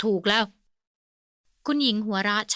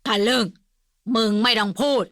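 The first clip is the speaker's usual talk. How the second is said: angry snap; 5 dB louder than usual. A narrator's reading. Old man snaps at Kimnguan.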